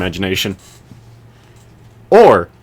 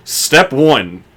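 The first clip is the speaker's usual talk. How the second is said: announcer voice. Acted. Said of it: "I sounded like a, like an announcer".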